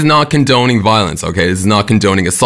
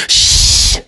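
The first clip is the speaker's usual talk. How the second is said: a quick unvoiced shh; shushing. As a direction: hush someone nearby. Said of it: "all of us are generally brave enough to do".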